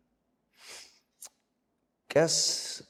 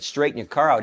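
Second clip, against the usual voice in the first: lightly acted police command; cop's order; 4 semitones higher than usual. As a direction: imitate an officer calling out an order. Cop repeats his order.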